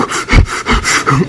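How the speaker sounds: quick voiceless puffs of smoke; nervous cigarette puffing. Retold or imitated. Storyteller mimics the official with her cigarette, nervous puffing. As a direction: imitate frantic puffing on a cigarette. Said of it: "She's got the cigarette going".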